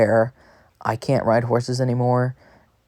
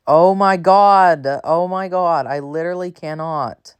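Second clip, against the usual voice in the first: drawn-out, higher-pitched exasperation; exasperated; 4 semitones higher than usual. Real, not acted. Gamer fighting wacky controls, exasperated. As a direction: stretch out a fed-up groan of words.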